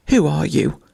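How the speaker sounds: yelped. A narrator's reading. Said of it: "he yelped".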